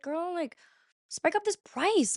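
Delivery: high-pitched, drawn-out exhortation; mock urging. Shopper tells painter her art's too cheap, urging. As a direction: re-enact a playful plea, pitch way up and slow.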